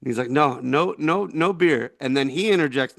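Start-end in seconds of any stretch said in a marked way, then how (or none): 0.3-1.9 lightly imitated Iraqi accent; a hint of Iraqi-accented English. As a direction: imitate an Iraqi man firmly refusing. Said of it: "this is how he sounded to me".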